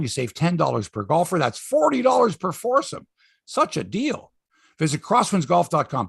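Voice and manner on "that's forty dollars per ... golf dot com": a smooth, lower-pitched radio ad read; cheesy host-read sponsor spot. Acted. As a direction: sell the golf course like a pitchman. Host reads a golf ad.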